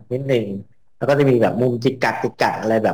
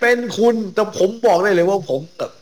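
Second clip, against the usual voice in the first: high-pitched denial of bragging; mock protest; 11 semitones higher than usual. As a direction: squeal your innocence, playfully defensive.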